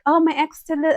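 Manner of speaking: mocking friend. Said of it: "She was just like".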